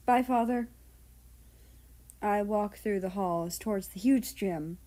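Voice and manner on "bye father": laughing. Acted. Laughing goodbye to father.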